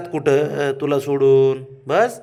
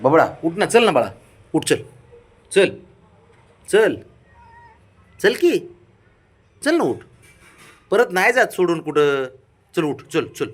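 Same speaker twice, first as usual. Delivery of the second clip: raised, louder pleading to get up; coaxing pet; 3 semitones higher, 5 dB louder than usual. Real, not acted. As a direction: coax the sulking pet to its feet.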